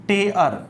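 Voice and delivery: टेयर said like English tear, rhyming with care; टेयर pronounced as tear, like air; pronunciation demo. Shown as a demonstration. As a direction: say टेयर slowly and clearly as tear. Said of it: "मैं वैसे भी लिख देता हूँ".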